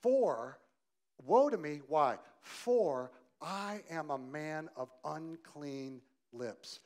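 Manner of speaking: slow, loud lament. Acted. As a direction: drag out the confession. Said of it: "Look what he says".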